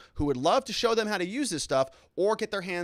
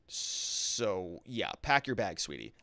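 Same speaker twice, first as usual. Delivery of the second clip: mock sweet; 7 semitones lower, 7 dB quieter, much slower than usual. Reads chat in mocking voice.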